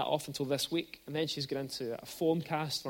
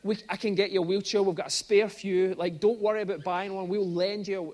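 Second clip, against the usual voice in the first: eager neighbour offer; 2 semitones higher, 6 dB louder than usual. Retold or imitated. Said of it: "He said".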